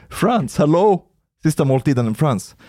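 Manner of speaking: high, incredulous "hello?"; mildly exasperated bid for attention; exasperated insistence. Retold or imitated. Reminding friends who ignored the news, mock exasperated.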